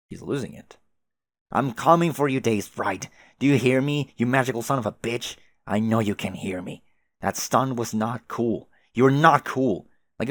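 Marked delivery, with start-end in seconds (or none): 1.5-5.4 angry shouting. Acted. John shouts threats at sprite. 8.9-9.9 a loud, punched put-down; angry yell. Acted. John yelling at Dave Sprite.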